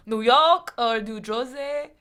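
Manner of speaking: slow New York or New Jersey accent; hint of New Jersey accent. Shown as a demonstration. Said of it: "the Texan accent".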